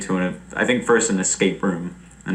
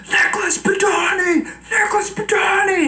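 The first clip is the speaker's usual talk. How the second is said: retold yell. Friends at the door yelling his name to scare him. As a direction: call the name out like banging on a door. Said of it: "I went".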